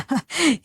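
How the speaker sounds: laughing aloud; burst of laughter. Acted. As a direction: laugh out at the joke. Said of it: "जोर से हंसने लगता है".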